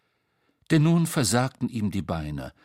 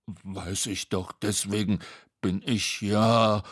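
slow, halting reply; sheepish excuse. Acted. Tete answering Bo's scolding, slow and sheepish. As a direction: trail along apologetically.

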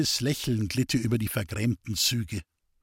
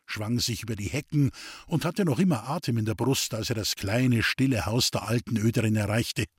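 ordinary delivery

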